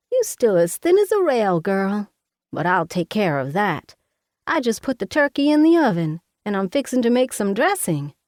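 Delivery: a bossy Southern mama fussing over her daughter; Mama, Southern mother. Acted. Mama voiced in the story.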